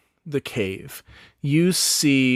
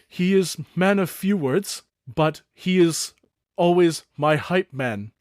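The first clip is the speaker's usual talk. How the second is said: elder goblin Thook; 5 semitones higher than usual. Acted. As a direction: greet the young ones as a gentle goblin elder. Thook voice again.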